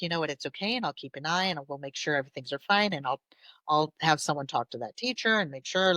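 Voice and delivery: quick, soft, hushed comfort; calm the child down gently and quietly; reassuring parent. Retold or imitated. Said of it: "you reassure them".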